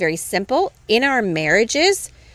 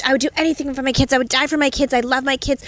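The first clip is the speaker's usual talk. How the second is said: earnest pleading; 5 semitones higher, faster than usual. Retold or imitated. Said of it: "he was saying".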